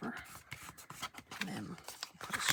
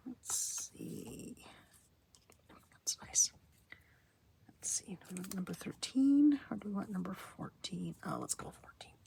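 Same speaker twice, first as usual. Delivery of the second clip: whispering. Real, not acted.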